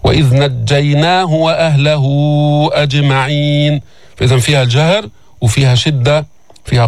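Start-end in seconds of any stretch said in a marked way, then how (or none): 0.0-3.8 Quran recitation. Shown as a demonstration. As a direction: chant it calmly and evenly. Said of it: "teacher recites verse".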